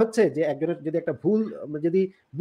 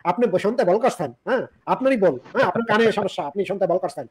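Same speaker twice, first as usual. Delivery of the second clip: mock stubborn denial; 3 semitones higher than usual. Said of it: "গাঁটটা তেরা করে যদি বলি".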